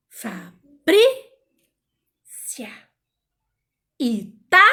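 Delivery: "Fabrícia, Itália" broken up, stressed middle syllable punched. Shown as a demonstration. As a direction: punch BRÍ and TÁ, gaps between syllables. Sounds out stressed syllables slowly.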